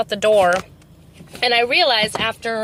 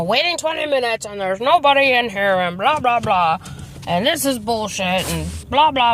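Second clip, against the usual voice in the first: mock griping. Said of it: "He's yelling and griping".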